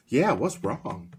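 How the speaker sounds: worried little girl, gently imitated; little daughter's voice. Daughter standing between dad and brother, light child voice. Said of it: "And I'm like".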